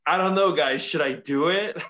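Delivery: a touch of douchey teasing to the crowd; douchey showman. Retold or imitated. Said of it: "He lives up his douchiness".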